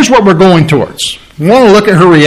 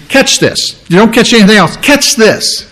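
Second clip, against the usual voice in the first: urgent catch this; 5 semitones higher than usual. Shown as a demonstration. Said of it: "what that means in the original language".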